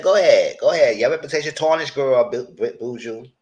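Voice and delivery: egging her on with a loud go ahead; mock taunt. To the castmate, a loud mocking taunt. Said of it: "I said".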